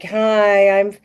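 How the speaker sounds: mock monotone influencer voice; TikTok monotone. Host demonstrating TikTok wedding-flower videos to co-host, droning monotone. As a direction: imitate a TikTok list video, keeping the pitch level. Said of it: "it's like this monotone".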